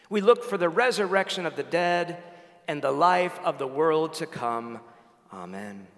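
whole church speaking the creed as one; many voices in unison. Real, not acted. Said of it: "let's say it in one voice".

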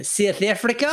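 South African accent demo on two words. Shown as a demonstration. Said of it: "couple of things I can personally do in a South African".

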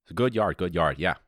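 put-on Chicago lumber-yard talk; lightly hammed-up suburban Chicago accent. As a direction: imitate a keen Chicago hardware regular. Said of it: "I don't know what that accent, uh, kinda Chicago".

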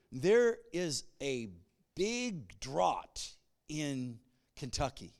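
put-on slow, drawn-out African accent. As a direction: imitate the missionary's accent slowly. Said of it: "If he would have told me".

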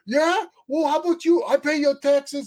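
put-on high, loud New York accent argument; New York accent, all attitude. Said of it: "the accent".

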